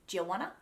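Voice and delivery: "Do you wanna" as juh-wanna; slangy juh for "Do you", rising; slang. Shown as a demonstration. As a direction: mush "Do you" into one J syllable. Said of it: "more of a slang terminology".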